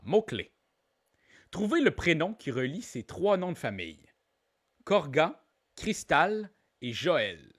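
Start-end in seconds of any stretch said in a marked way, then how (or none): 4.8-7.5 surnames read with French pronunciation; deliberate French accent, names spaced out. Shown as a demonstration. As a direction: say the English surnames as French words. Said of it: "Je l'ai dit avec l'accent français".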